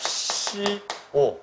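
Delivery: slow, formal hasipsio-style request; spoken slowly and formally to show respect; formal polite demo. Shown as a demonstration. Demonstrating formal speech to students, slow and polite. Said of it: "나 봐봐".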